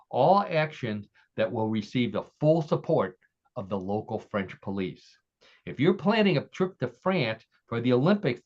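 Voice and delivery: measured, emphatic announcer read with dramatic pauses; story read-aloud. Acted. Host reads a tall story to contestants, measured story read-aloud. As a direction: lay out each phrase like an official warning.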